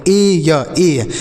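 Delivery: drawn-out ए या ए; slow teacher's sound demo of ए या ए. Shown as a demonstration. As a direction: stretch each sound of ए या ए. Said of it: "ए के रूप में होगा".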